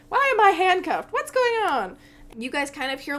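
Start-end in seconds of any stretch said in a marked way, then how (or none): 0.1-2.0 high, loud, bewildered kobold; alarmed Meepo. Acted. Kobold finds himself handcuffed, alarmed and confused. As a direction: demand answers in a high creature voice. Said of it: "looks around and he's like".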